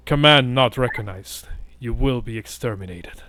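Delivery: lightly voiced robot command; a hint of a machine guard; robotic voice. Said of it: "sort of like robotic voice".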